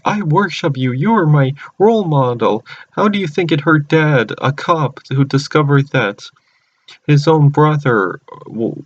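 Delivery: high, lightly hammed-up reproach; impassioned confrontation. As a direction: act out an upset, pleading reproach. Retold confrontation, Gwen pleading with villain.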